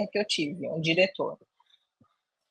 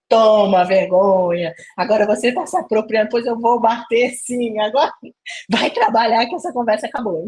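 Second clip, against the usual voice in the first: mock stern boss; 5 dB louder than usual. Director scolding her back, louder mock stern. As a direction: bark it like a boss ending the talk. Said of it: "Ele falou".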